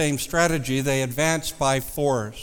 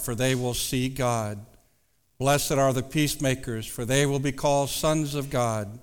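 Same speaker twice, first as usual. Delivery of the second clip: scripture reading; 2 semitones lower than usual. Acted. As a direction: read the verses with reverence. Reads scripture aloud.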